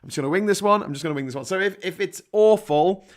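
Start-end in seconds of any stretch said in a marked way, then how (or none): 0.0-0.8 repeated with a playful lilt; chirpy, carefree restatement; sing-song repeat. Shown as a demonstration. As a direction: bounce it like a cheeky motto. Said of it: "so I've not made any notes".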